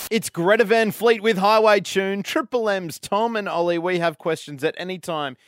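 presenter introducing a track; radio song intro. Acted. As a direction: announce it lively, then settle into the contact details. Back-announces song and show contacts.

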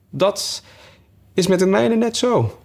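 matter-of-fact madman; Hatter voiced. A narrator's reading. (veel hoger, gekke hoedenmaker)

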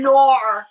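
"Nor" with a drawn-out r-coloured vowel; mock "no" turned into "Nor"; overdone Aussie "no". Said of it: "people do it mocking of Aussie".

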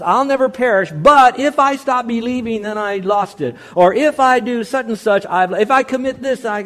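a hint of an anxious objector; mock doubter. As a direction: lightly mimic the worried believer. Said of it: "So when someone says".

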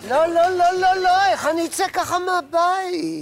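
loud, high no no no; horrified protest. Acted. Woman refusing the ugly bracelet, loud and horrified. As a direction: cry out in dismay.

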